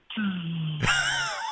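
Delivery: long hiss of escaping air; deflating air noise. Retold or imitated. Player realising his mistake, deflating. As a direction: imitate a balloon letting out all its air.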